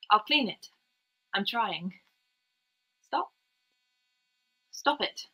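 put-on a scared little girl begging her mother to stop; panicked child.

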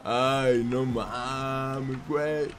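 put-on slow, soft, drawn-out Mexican accent; imitated Mexican accent. Player playing a Mexican, lamenting softly in that accent. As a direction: stretch "no mames" in a mock Mexican accent. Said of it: "Ya dejaré de hablar con un mexicano".

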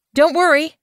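high, loud, eager reassurance; proud announcement. Acted. Bluefur telling Featherwhisker the news, high and proud. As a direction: burst in with the good news. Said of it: "she announced".

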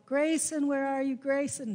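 searching neighbourhood at night, calling out; calling for the cat. Retold or imitated. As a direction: call out across the street, searching. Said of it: "calling for Grayson".

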